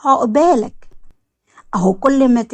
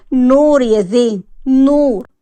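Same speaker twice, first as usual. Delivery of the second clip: louder, slow, demanding answer; insistent; 2 semitones higher, 5 dB louder, slower than usual. Acted. Wife presses husband about his cousin, insistent and loud. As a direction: push him, slow and loud, on the name. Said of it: "طب بالراحة طيب".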